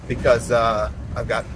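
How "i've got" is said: talking while driving over bumps; on a bumpy road. Real, not acted. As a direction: voice jolted by bumps. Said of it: "sorry for the bumps".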